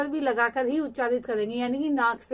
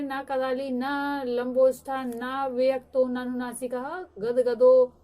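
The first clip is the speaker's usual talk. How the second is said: Sanskrit recitation; slower than usual. Shown as a demonstration. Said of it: "Panini महोदय ने लिखा है".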